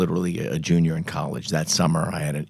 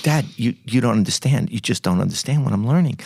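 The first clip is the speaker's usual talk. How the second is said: protesting son; 4 semitones higher than usual. Retold or imitated. Son arguing back to angry father.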